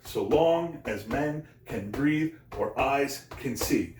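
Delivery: slow da-DUM swing: "so LONG as MEN can BREATHE or EYES can SEE"; iambic heartbeat stress. Shown as a demonstration. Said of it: "It's just like a heartbeat".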